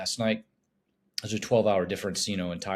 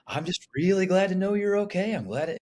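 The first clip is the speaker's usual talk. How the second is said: relieved mom voice; 10 semitones higher than usual. Retold or imitated. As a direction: play his mom sighing with relief that he is safe. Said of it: "She's like".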